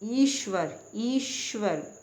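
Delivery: ईश्वर with a long, pressed first ee; stress on ई. Shown as a demonstration. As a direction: lean hard on the opening vowel of ईश्वर. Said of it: "आप ई पर जोर दे रहे हैं".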